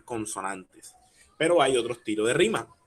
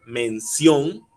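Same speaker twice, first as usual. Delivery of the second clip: "mención" con fuerza en la O final; acento en la última sílaba; 2 semitones higher, 5 dB louder than usual. Shown as a demonstration. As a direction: marca la O de "mención", más fuerte. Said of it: "el acento estaría en la O". ("mención" con acento agudo en la O)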